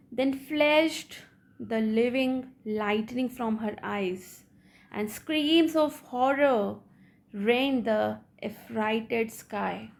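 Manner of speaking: slow, measured verse reading with stressed key words; poem recitation. Acted. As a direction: read the verse out deliberately, phrase by phrase. Reads the poem aloud. (कविता का धीमा, ठहरकर पाठ)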